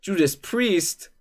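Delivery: drawn-out high heavy metal call; metal announcer voice. Pretend. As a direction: announce the band like a metal hype man. Hyping the metal band.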